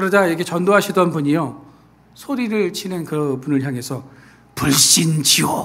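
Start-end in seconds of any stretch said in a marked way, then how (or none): 4.5-5.7 slow, drawn-out, angry, glaring reply. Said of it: "이러면서 눈을 부릅뜨면서".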